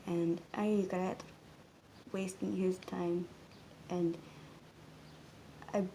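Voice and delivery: slow, halting, soft confession; subdued regret. Real, not acted. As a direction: confess it quietly, with long pauses. Confessing regret over lost closeness.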